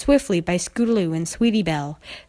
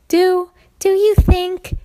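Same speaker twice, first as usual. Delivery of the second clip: high, loud, slow stammering filly; frightened stammer; 11 semitones higher, 7 dB louder, slower than usual. Acted. Sweetie Belle asking friends in fear, stammering. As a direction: stumble over it, scared.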